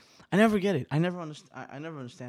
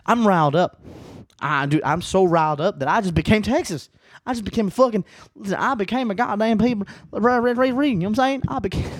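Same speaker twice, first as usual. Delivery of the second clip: loud, higher, giddy ranting; riled up; 6 semitones higher, 5 dB louder than usual. Real, not acted. To podcast listeners, giddily riled up and joking. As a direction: ride the adrenaline into a joke.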